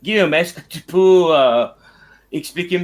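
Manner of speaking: English speaker's halting French accent; French with an English accent, hesitant; foreign accent in french. Real, not acted. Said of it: "mon français c'est un petit peu nul".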